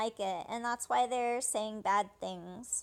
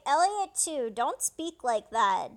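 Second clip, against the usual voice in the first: louder firm scold, slowing on the last words; 6 dB louder, slower than usual. Retold or imitated. Sister scolding Elliot for his rude words, mock stern. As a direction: tell him off like a stern big sister. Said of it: "So she scolds him".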